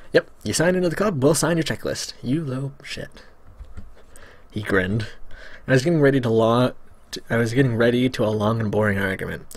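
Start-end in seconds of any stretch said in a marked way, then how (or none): 0.1-3.2 nerdy voice turning sly. Acted. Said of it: "I'm gonna have fun with his voice".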